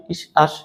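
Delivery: "ইস", "আস" as two separate syllables; sound-link demo. Shown as a demonstration. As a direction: set "ইস" beside "আস" with hissed endings. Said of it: "এই ইস এবং আশের ভিতরে একটা সম্পর্ক".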